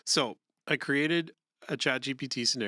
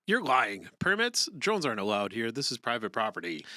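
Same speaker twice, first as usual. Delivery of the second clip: loud, accusing, a sharp jump up on Permits; agitated; 3 dB louder than usual. Shown as a demonstration. Agitated neighbor accusing the pilot of lying, loud. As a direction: push back hard and call him a liar. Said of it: "the agitated person could sound something like this".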